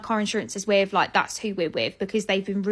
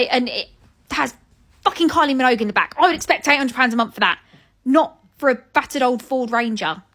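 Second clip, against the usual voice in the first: louder, fired-up rant; louder exasperated rant; indignant rant; 5 dB louder than usual. Real, not acted. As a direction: vent the unfairness loudly. Ranting about the price.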